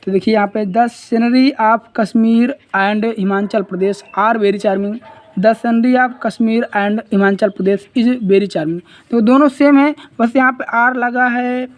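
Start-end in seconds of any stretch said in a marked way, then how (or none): 0.7-4.9 reads the wrong sentence slowly, word by word; slow classroom reading of the wrong option; slow dictation read. Shown as a demonstration. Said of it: "are वाला गलत है". 5.4-8.8 reads the correct sentence slowly, word by word; slow classroom reading of the right option; slow dictation read. Shown as a demonstration. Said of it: "ये is वाला सही है".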